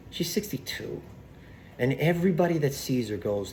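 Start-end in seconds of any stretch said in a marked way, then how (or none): 0.1-1.0 whisper. Real, not acted. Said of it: "She's sixty-two years old".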